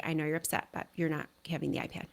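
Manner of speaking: put-on quiet, quick, calm no to the child; quiet steady boundary, dropping to a whisper at the end; calm firm script. Shown as a demonstration. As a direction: hold the line softly and quickly. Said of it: "we're just gonna say".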